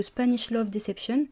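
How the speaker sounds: English title in a thick French accent; clumsy English accent. Real, not acted. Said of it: "avec mon super accent anglais". (titre anglais avec un accent franglais maladroit)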